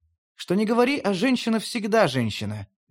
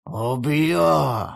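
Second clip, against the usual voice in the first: growled threat; 2 semitones lower than usual. Acted. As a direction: snarl the threat. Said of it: "прорычал". (прорычал, угрожающе)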